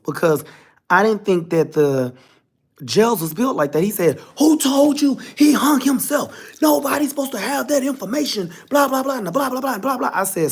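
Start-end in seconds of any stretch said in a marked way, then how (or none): 4.4-10.1 defensive warden. Retold or imitated. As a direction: bristle like an official caught out. Warden getting defensive on phone.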